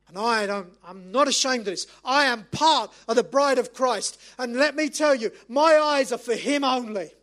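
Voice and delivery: firm, fervent declaration from the pulpit; impassioned preaching. Acted. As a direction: declare it proudly to the congregation. Preaches at full force.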